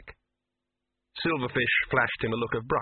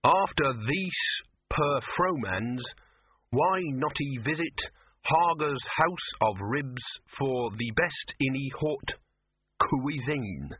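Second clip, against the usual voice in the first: slow, halting read of a misspelt card; a hint of stumbling through the text; 3 semitones higher, slower than usual. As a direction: sound out each word of the sign. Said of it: "written in shaky handwriting".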